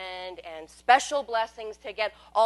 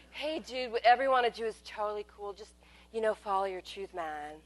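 lightly voiced laid-back stoner dude; Big Lebowski voice; 3 dB quieter than usual. Mocking New Age God as a mellow dude. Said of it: "God sounds like the Big Lebowski".

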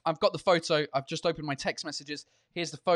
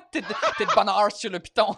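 laughing through it; 5 dB louder than usual. Real, not acted. Laughing while repeating joke.

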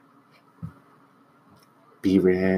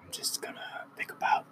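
seductive whisper, joking; sultry narrator; 4 semitones lower, 4 dB quieter than usual. Pretend. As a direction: tease in a sultry hush. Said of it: "Get it in your sexy voice".

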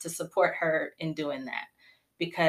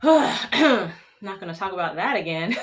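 slow, louder, with a laugh after a sigh; laughing through it; 4 dB louder, slower than usual. Real, not acted. Deciding to drop the painful topic for the chat, laughing. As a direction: shake it off with a rueful laugh.

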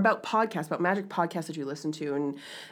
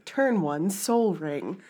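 slow, drawn-out announcer call; arena announcer; much slower than usual. Shown as a demonstration. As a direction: boom out the show name slowly like an arena announcer. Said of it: "So now you can hear the original".

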